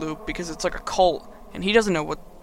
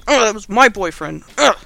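exasperated; mock jealous whine; 3 semitones higher, 7 dB louder than usual. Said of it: "'cause he's like".

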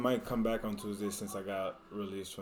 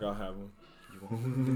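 laughing; much slower than usual. Real, not acted. Laughing at snack.

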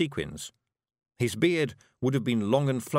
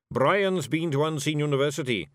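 smug boast, higher and louder; so-there smirk; 5 semitones higher, 4 dB louder than usual. Acted. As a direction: show off your expert triumphantly. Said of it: "with a so-there smirk".

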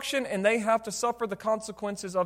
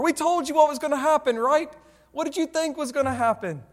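raised, higher-pitched told-you-so; exasperated parent; 6 semitones higher than usual. Acted. Preacher acting a parent to his burned kid, mock exasperation. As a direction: scold like a fed-up parent, hammed up a little.

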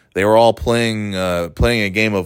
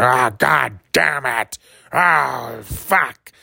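slow, drawn-out mock curse over a lost game; a hint of a furious old boss; mock angry swearing; 5 semitones higher, much slower than usual. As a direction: grumble it like a sore loser. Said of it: "he was just screaming and swearing".

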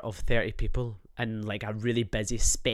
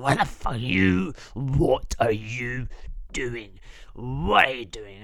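mock angry shouting; slower than usual. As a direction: shout it like a hostile stranger. Retold shouting from people.

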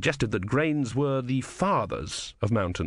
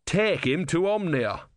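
thickly; 6 semitones higher, slower than usual. A narrator's reading. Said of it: "said Brother thickly".

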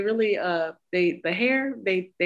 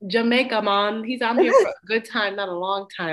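louder, light Jamaican-accent imitation; imitated Jamaican accent; 3 semitones higher, 4 dB louder than usual. Winston announcing himself to the family, imitated Jamaican accent. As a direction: play the upbeat visitor with a Jamaican accent. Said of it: "I hear the accent sometimes".

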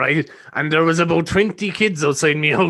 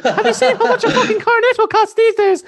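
irate caller; 5 dB louder than usual. Pretend. Mock radio caller rant.

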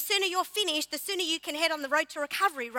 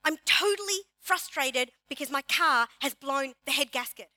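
rising frustration, louder on the questions; frustrated complaint; 3 dB louder than usual. Shown as a demonstration. Preacher acting out a frustrated churchgoer, getting louder. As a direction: vent about the broken car like it's a disaster. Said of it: "How about this?".

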